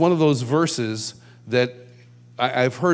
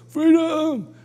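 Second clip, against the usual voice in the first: mock rallying yell; 14 semitones higher than usual. Worship leader working a nineties conference, high mock yell. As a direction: call it high and long. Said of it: "you go".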